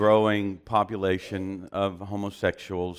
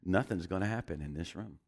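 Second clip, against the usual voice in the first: low, soft, calm divine voice; Holy Spirit's voice; 4 semitones lower, 8 dB quieter than usual. Retold or imitated. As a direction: speak as a quiet voice from God. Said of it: "He said".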